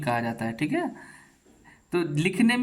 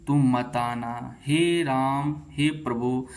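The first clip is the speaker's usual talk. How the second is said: drawn out; much slower than usual. Shown as a demonstration. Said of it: "वहाँ पे हम दीर्घ तक बोलते हैं".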